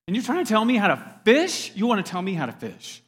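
indignant scoff. Acted. Peter scoffs at Jesus' advice.

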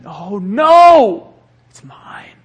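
a loud cry, then a hissing whisper; Gollum. Retold or imitated. Pastor doing a Gollum voice for the greedy heart. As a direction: clutch it like a greedy creature. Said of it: "It's like Gollum".

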